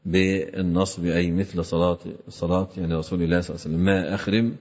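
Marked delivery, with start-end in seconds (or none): 3.9-4.5 "أخرم" with a on the first letter, i on the ra; open first vowel. Shown as a demonstration. Teacher vocalises the narrated word, "أخرم" as akhrim. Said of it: "بفتح أوله وكسر الراء".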